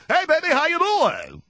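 hammed-up high, projected greeting; affected radio voice. Husband coming home to his wife, affected big voice. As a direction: belt it out like an overblown DJ. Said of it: "I don't go in the door and say".

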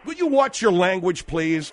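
loud, indignant scolding; sharp reprimand. Acted. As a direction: cut in and tell them off. Host scolds guest for slur.

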